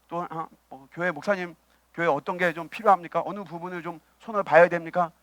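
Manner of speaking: low, soft imagined churchgoer; deferential offer. Pretend. Church member asking the pastor what needs fixing, soft and deferential. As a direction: lightly voice a member asking in an undertone.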